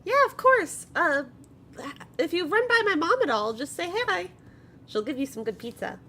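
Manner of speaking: high, loud, hesitant worried friend; Poppy's nervous voice. Acted. Poppy calling the party with worried news, high and hesitant. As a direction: fret while breaking bad news.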